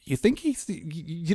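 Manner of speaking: hushed conspiratorial whisper. Real, not acted. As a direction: lean in and whisper it.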